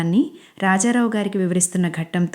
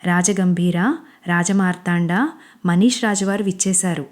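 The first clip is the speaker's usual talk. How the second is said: a lightly hammed-up herald announcing a king; mock-grand announcement, slowing on రాజమార్తాండ; dramatic royal entrance. Manish cheering Anjali up, lightly mock-royal herald. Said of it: "అంటూ నాటకీయంగా ప్రవేశిస్తాడు".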